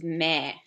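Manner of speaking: a short goat-like meh; goat bleat imitation. Shown as a demonstration. Teacher showing the goat sound meh. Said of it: "you kind of make the weird sound meh".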